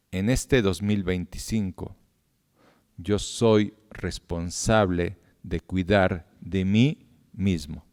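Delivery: very slow, soft and deliberate vow; slow solemn declaration. Shown as a demonstration. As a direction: lead the congregation word by word through a solemn vow. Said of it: "Vamos a decir esto".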